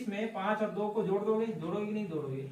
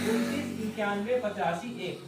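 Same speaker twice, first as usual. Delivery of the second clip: emphatic answer. Shown as a demonstration. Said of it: "तो मेरे को क्या मिला".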